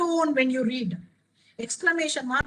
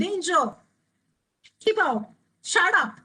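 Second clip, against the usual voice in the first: exclamatory; 3 semitones higher than usual. Shown as a demonstration. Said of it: "It does the same thing in minor verbless sentence".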